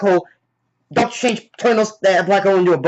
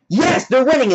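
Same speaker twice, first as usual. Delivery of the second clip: mock cheer; 7 semitones higher than usual. Acts out audience cheering.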